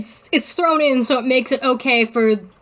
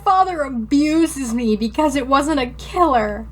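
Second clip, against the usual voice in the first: mock sincere sarcasm; 3 semitones higher than usual. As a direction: say it as fake sweet approval. Sarcastic paraphrase of story.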